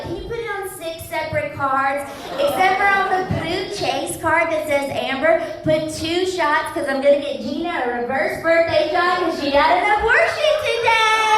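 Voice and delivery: high, giggly protest; drunk girl protesting. Retold or imitated. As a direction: brush it off like a tipsy girl. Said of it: "they'll be like".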